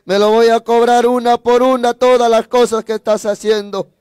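insistent, building threat in one long run; angry vow. Retold or imitated. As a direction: vow payback with rising intensity. Child's angry vow to stepfather.

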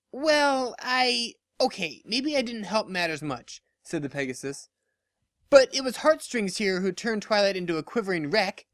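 squirm, then shift the blame; sheepish then defensive pegasus. Acted. Dash admitting fault then blaming Heartstrings, flustered.

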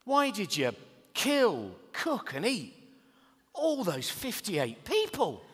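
loud, slow, appalled questioning; dad confronting killer son, loud and slow; mock horrified father. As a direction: demand it like a shocked father. Imagined future confrontation with son.

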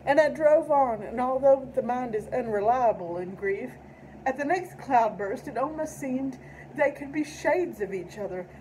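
measured, solemn poem recitation; poetry reading. Acted. Reads tribute poem aloud.

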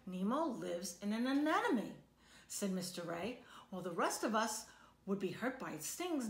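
lively storybook read-aloud for a class; reading to children. A narrator's reading. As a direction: read it like a picture book to kids. Teacher reads picture book aloud.

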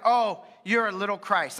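lightly voiced sneering taunt; a hint of teasing the believer; mocking taunt. Outsiders jeering at early Christians, lightly mocking. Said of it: "they're like".

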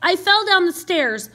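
slow, halting answer; groggy. Acted. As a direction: struggle a little to get it out. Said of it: "it was hard to think clearly".

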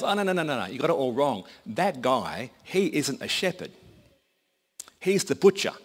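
lightly acted local setting someone straight; emphatic correction. Local man corrects the farmer.

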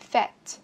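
"Fat" with the A as a flat, wide E; flattened E vowel. Shown as a demonstration. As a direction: spread the vowel of "Fat" toward E. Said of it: "thành chữ E bẹp".

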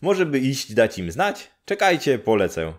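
high, loud and quick with joy; bubbling over, ready to run; excited village woman. Acted. Neighbour woman eager to fetch his parents, excited and high.

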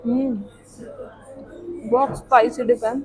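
words muffled by food; talking while chewing. Real, not acted. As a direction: mouth partly full. Seen 0: Bit sandwich at -5, lips pressed and working while speaking early on.

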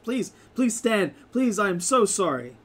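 high, loud, fretful apologies; a nervous frog man fussing over the guests; apologetic frog man. Acted. Frog man healing the party, high and flustered.

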